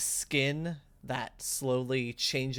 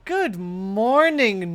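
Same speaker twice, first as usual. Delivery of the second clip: loud, higher, slow grand greeting; grand spirit greeting; 9 semitones higher, 11 dB louder, slower than usual. Acted. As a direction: boom the greeting down from above.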